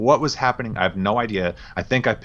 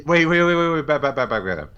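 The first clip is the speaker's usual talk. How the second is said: surprised interruption; 5 semitones higher than usual. Real, not acted. Stunned by shared Hollis plan.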